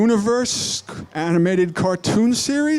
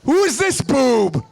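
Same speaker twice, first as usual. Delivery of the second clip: villain sneer; 4 semitones higher than usual. Acted. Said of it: "Skeletor governor".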